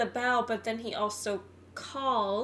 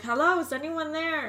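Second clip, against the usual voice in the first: raised call from up high, pitched up; shouting from crow's nest; 6 semitones higher, 5 dB louder than usual. Retold or imitated. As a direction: call out down the phone line. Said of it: "he's like".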